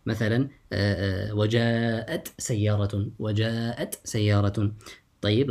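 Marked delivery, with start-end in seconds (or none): 1.3-4.7 وجاءت with its final ت clearly released before سيارة; izhar. Shown as a demonstration. Teacher demonstrates the seen example to students, izhar. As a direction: keep ت and س apart in وجاءت سيارة.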